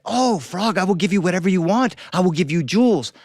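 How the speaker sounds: high, loud, fast eager pleading; excited princess begging the frog. Acted. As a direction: promise anything to get the ball back.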